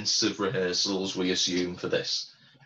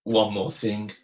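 slow, catty imitation of her accent, higher on Tony; 4 semitones higher, much slower than usual. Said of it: "your accent of hers is spot on".

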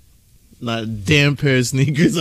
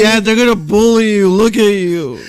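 mock daughter; 7 semitones higher, 4 dB louder than usual. Playing daughter.

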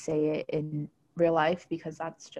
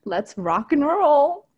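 mock white person voice; 3 semitones higher, 5 dB louder, slower than usual. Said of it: "And you're like".

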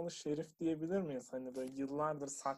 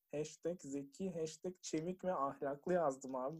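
usual speaking voice

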